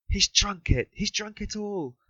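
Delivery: high, anguished, slowing wail; wife screams that he drank it all; screaming in despair. A narrator's reading. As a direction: cry out in despair. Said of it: "the poor woman screamed in despair".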